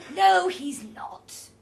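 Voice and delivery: slow, forceful denial; emphatic contradiction. A narrator's reading. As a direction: contradict loudly, stretching each word. Roger contradicts Elsa.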